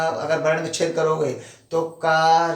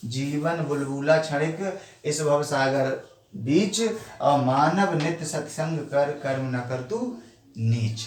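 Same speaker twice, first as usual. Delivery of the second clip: verse recital; slower than usual. Shown as a demonstration. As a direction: read the couplet as a doha. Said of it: "इस side से पढ़ेंगे उल्टा करके".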